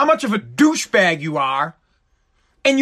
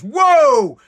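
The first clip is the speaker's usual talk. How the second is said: phone pop-up warning voice; 4 semitones higher than usual. Retold or imitated. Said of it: "it goes".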